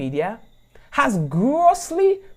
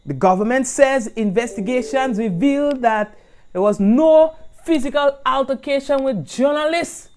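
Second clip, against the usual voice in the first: lightly put-on English accent; mock English accent. Host reading the government statement, mock English accent. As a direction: read it like a posh English newsreader. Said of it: "Me put on my English accent".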